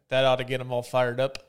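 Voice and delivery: put-on light Minnesota accent coach quote. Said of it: "my best Minnesota accent".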